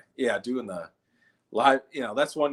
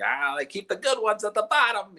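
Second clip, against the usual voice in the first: higher odd character voice; weird guy voice; 11 semitones higher, 3 dB louder than usual. Retold or imitated. Comic imitating the weird guy digging in the DVD bin. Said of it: "he's like".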